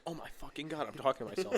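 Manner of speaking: the other half of the brain repeating it mockingly; mocking echo voice. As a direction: parrot it back, teasing. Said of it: "the other part of me goes".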